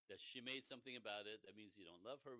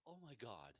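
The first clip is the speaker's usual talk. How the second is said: louder, laughing relief; relieved laughing husband; 5 semitones higher, 5 dB louder than usual. Retold or imitated. Husband explaining it was Susie at work, laughing relief. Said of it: "he goes".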